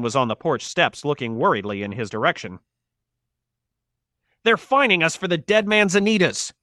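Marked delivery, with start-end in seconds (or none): 4.4-6.5 high-pitched, outraged shouting; angry shout. A narrator's reading. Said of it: "he shouted".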